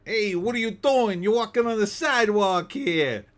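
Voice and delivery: high, loud, hammed-up German accent; mock German accent. Host mocks a German scolding a walker in German accent. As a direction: bark it like a stern German local. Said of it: "I can't do a German accent".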